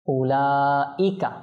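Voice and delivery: উলাইকা with the "laa" held very long; four-alif elongation. Shown as a demonstration. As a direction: stretch the middle vowel of উলাইকা slowly. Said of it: "এটা চার আলিফ মত".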